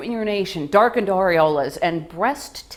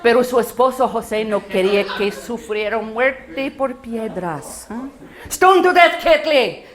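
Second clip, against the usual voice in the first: mother-in-law exclaiming. Retold or imitated. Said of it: "she starts talking about the sufriendo".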